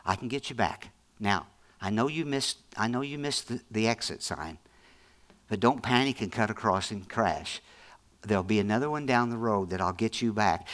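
soft, calm reassuring voice of God. Acted. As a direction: comfort a lost driver gently. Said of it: "God doesn't even talk to us that way".

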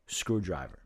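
slow list with pauses between names; low, spaced-out drink list. Shown as a demonstration. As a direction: read out each drink separately, low and unhurried. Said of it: "I'm gonna say it slow".

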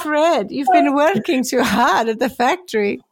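acted German accent, concerned; put-on German wife voice, caring. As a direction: soothe a husband in a mock German accent. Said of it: "she said in a caring voice".

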